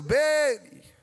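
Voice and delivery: calling out 'Beni' loud and high from outside; a kid outside shouting for Beni, loud and high; retold shout. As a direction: yell the boy's name from down the street. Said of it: "Eu ouço alguém gritando".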